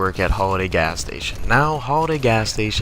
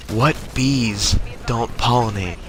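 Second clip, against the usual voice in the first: riddle-teller imitation; slower than usual. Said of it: "he's just like".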